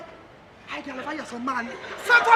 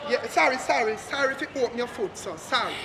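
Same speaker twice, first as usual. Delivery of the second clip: fading, lower grudging sorries; sarcastic sorries getting quieter; mock apology; 7 semitones lower, 6 dB quieter than usual. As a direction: trail off sarcastically.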